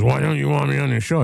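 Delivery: high, mock-indignant drunk; put-on high pleading question; pestering drunk. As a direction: imitate a drunk heckler protesting. Drunk man retold, pestering host.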